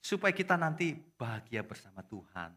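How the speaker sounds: ordinary delivery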